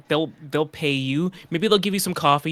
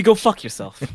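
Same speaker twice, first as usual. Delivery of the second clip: Boston tough guy; 5 semitones higher, 3 dB louder than usual. Pretend. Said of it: "Maybe, maybe not".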